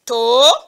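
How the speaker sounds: "tomate" split into to, ma, te with long pauses; loud, drawn-out syllables in "tomate". Shown as a demonstration. Teacher cutting a word for pupils, "tomate" syllable by syllable. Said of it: "le mot tomate a trois syllabes seulement".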